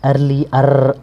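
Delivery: "अर" drawn out to show the R in "early"; light R demo. Shown as a demonstration. Teacher showing how lightly to read R, pronunciation demo. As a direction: say "early", then isolate "अर" with a lingering R. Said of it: "आर को हल्का पढ़ेंगे".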